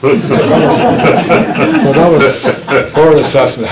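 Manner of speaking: talking loudly through real laughter; laughing. Real, not acted. Wrapping up her verdict for the audience, laughing.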